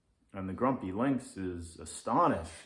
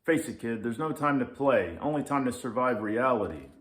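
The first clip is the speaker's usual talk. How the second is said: louder, gruff lecturing lynx; grumpy lynx; 3 semitones higher, 6 dB louder, faster than usual. Acted. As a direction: lay down the law, grumpy. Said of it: "says the Grumpy Lynx".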